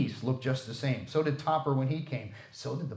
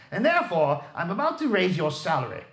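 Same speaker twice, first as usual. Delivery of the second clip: booming reveal; 5 semitones higher, 5 dB louder than usual. A narrator's reading. Scrooge's scolding turns to joy.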